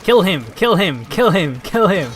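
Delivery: loud, high, repeated battle cry; frantic urging. Real, not acted. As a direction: hammer each kill as the fight turns. Urging on during a fight.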